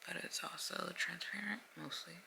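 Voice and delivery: stiff mouth under a tight mask; drying face mask. Real, not acted. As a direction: talk with barely moving lips. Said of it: "I can barely move my mouth".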